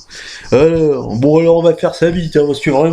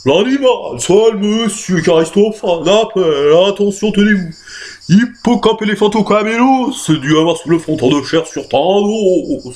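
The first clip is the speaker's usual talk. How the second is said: pedantic; 4 semitones higher than usual. Acted. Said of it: "Pédant, à la parisienne un peu".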